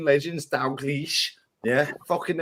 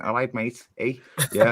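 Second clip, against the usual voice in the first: a light, casual Scouse "All right, mate"; Scouse accent; 4 dB quieter than usual. Retold or imitated. Mates mocking Liverpool, a lightly put-on Scouse accent. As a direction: toss it off in a mild Liverpool accent. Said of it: "With a Scouse accent".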